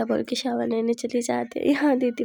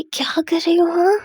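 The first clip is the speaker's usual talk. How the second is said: mild protest; 4 semitones higher, 6 dB louder than usual. Acted. Pulled back and pinned, protesting.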